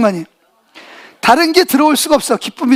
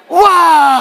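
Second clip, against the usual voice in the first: drawn-out, moderately raised cheer; joyful shout; 3 semitones higher, 3 dB louder than usual. Acted. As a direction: let out a long, falling cheer toward God. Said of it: "소리를 막 지르는 거예요". (기뻐서 길게 내지르는 함성)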